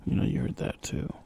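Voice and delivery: soft unvoiced whisper. Real, not acted. Streamer muttering to viewers while sneaking, whispered. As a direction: keep it hushed so nothing hears.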